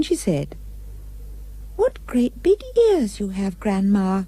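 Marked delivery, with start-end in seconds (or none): 1.8-4.2 a curious child, lightly voiced; little girl gently wondering; innocent little girl. Girl speaking to wolf.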